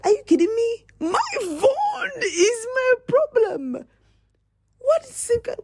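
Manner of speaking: high, wailing mock sob; hammed-up crying shout. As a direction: whine it like a toddler losing a toy. Mock outrage over losing phone.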